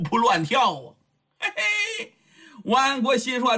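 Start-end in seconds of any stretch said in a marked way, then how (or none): 1.4-2.1 high, lecherous heh-heh; a playboy giggling at a pretty girl; high leering chuckle; leering giggle. Acted. Rake delighted by the girls.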